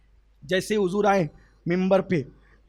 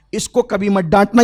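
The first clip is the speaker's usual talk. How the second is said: louder, pressing warning; firm loud command; 6 dB louder than usual. Acted. Prophet warning Umar, loud and firm. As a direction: lay down the order firmly.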